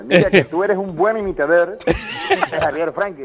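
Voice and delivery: laughing. Real, not acted. Slow line broken by laughter.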